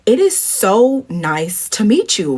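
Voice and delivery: drawn-out fangirl greeting; mildly hammed-up awe; geeking out. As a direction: gush slowly over each word, starstruck. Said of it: "I'm, like, fully geeking out".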